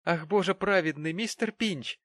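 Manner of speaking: high, loud astonished cry; surprised exclamation. A narrator's reading. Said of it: "воскликнула Черри".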